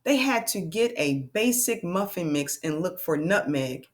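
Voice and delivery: deliberate storybook read-aloud; measured, expressive reading for learners; reading to children. Acted. Teacher reading one last page to friends, expressive read-aloud.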